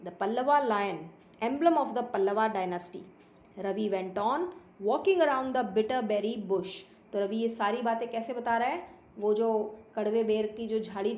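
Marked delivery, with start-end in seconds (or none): 0.0-6.7 slow, deliberate storybook reading; story read-aloud. A narrator's reading. Boy boasting of the cat's ancestry, slow read-aloud. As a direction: read it out unhurriedly, spacing each phrase.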